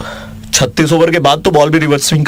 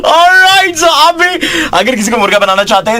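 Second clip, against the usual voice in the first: radio announcer; 11 semitones higher than usual. Acted. RJ's radio promo outro.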